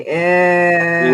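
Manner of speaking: loud disgusted ew; a hint of Tony's disgust; imitating Tony's ew. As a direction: friend Tony's ew, mildly imitated. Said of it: "as my friend Tony would say".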